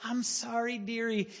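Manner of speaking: a hint of a kind old lady calling someone dearie; sweet old lady. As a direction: gently coo it like a frail grandmother. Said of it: "in a very sweet voice".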